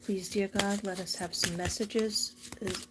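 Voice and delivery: measured, slightly hushed prayer; a gentle, unhurried plea to God; spoken prayer. Real, not acted. Asking dear God for messages from people in heaven, gentle prayer.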